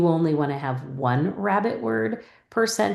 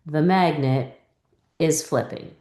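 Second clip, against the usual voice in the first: choppy reading. Shown as a demonstration. Teacher showing a student's first choppy read, chunked. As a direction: read it in chunks with a pause between them. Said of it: "let's read that sentence".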